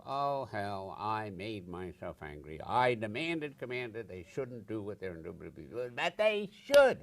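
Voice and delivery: quick self-talk. Retold or imitated. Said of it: "I say to myself very quickly".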